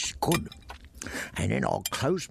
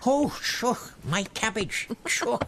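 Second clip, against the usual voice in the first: startled; 9 semitones higher than usual. Acted. Suddenly remembering his supper.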